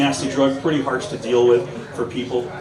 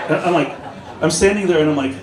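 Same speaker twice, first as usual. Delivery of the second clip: laughing while talking; 5 semitones higher, faster than usual. Real, not acted. Still laughing while retelling.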